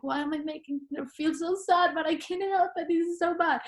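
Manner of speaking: high, pained self-reproach; anguished. Retold or imitated. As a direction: plead with yourself in despair. Retelling despair over her mom.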